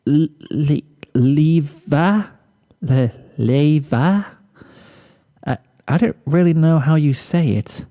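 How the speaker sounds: high, halting words on the edge of crying; tearful stammer. Acted. Fluttershy to Rarity, unsure, high tearful stammer. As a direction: stumble through it near tears.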